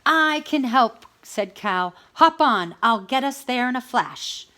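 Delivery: loud, high, eager cow. A narrator's reading. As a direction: jump in to help.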